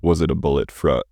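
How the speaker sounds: "fro-" chopped short mid-word; cut off. Acted. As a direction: break off abruptly on "fro-". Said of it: "the speaker is cut off".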